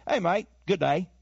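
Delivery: lightly put-on Aussie accent; Australian accent. Revealing how the actor really talks, mock Australian accent. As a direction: greet like an Aussie, imitated. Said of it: "really he talks like this".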